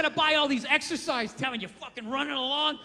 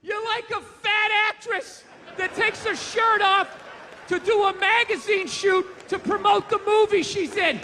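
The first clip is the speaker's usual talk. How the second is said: mock gushing; 7 semitones higher, 5 dB louder than usual. Comic sitting by a fireman's rescue, high mock gush. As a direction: sarcastically gush over a fat actress. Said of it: "Am I gonna sit there like".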